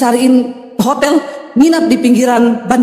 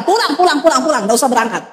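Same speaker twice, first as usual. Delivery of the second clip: brisk dismissal; faster than usual. Retold or imitated. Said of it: "saya bubarin itu semua".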